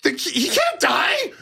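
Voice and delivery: high, anguished cry; childhood outcry. Retold or imitated. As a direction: cry out like a heartbroken kid. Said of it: "I'm like".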